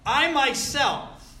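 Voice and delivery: I myself, slow, loud and high on I; emphatic I myself. Shown as a demonstration. Preacher stressing God's own hand in the verse. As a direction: lean hard on "I myself". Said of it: "God is being very emphatic".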